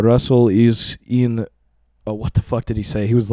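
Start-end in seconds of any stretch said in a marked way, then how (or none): 0.0-1.4 put-on slow Russian-accented dad; halting English with a Russian accent, imitating dad. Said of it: "in his Russian accent".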